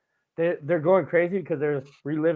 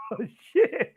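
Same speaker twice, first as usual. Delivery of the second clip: high, loud startled laugh; laughing alarm; 11 semitones higher, 5 dB louder than usual. Retold or imitated. Teenage grandson after grandpa's outburst, laughing alarm. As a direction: yelp it through laughter.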